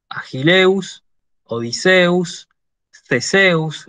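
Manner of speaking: Greek hero names said deliberately with final stress; careful citation reading, accent on each last syllable; reading Greek examples. Shown as a demonstration. Greek teacher reads hero names to the class, careful demonstration. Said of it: "Yo las voy a leer".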